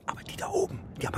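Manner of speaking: whispered as if sharing a secret; conspiratorial whisper. Acted. Old man whispers his conspiracy theory to the officer. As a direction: drop to a hush for the secret.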